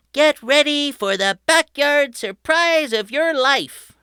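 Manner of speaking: put-on high, loud eager kid voice; a boy thrilled to show off his surprise; excited boy Patrick. A narrator's reading. Patrick inviting his family to the backyard, high and excited. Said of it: "he said".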